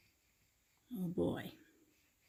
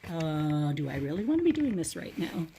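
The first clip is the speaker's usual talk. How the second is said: fast, awkward mumble; sheepish. Shown as a demonstration. Reader demonstrating sheepish for the kids, fast and awkward. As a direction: sound embarrassed and unwilling. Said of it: "That's kind of sheepishly".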